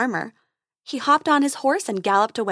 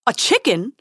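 squeak; 6 dB louder than usual. A narrator's reading. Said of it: "squeaked the prince".

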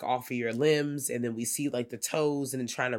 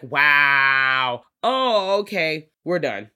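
mock loud reaction; 8 dB louder, much slower than usual. Reacting to a gruesome movie scene, loud mock shock. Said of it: "I was just like".

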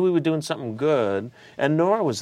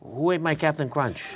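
yelling across the room; 5 semitones higher than usual. Pretend. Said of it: "hear De Niro in the kitchen in the morning".

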